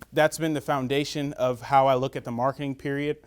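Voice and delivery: words slurred by fake teeth; tripping over words with dentures. Real, not acted. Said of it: "I'm sorry, I got fake teeth".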